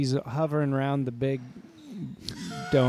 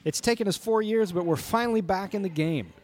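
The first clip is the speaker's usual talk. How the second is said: higher radio announcer voice; sportscaster voice; 4 semitones higher than usual. Acted. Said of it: "Mine too".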